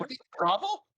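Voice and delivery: clipped, peaking mic; distorted through an overloaded mic; fuzz distortion. Real, not acted. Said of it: "Your mic is peaking".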